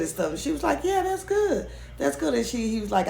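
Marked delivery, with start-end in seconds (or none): 0.8-2.3 mock agreement. Mimicking her forced reply.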